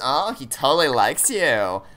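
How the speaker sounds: slow, drawn-out mock gushing; sing-song, exaggerated "he likes you" tease; playful teasing. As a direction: play it off as light teasing, stretching the words. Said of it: "could be played off as".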